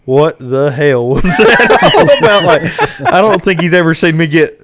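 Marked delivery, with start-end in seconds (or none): 0.1-2.4 stunned laughing question. Retold or imitated. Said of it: "He's like".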